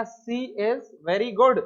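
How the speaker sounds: very slow, word by word: "She is very good"; slow model reading. Shown as a demonstration. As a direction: read it out slowly for the class. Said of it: "मैंने कहा".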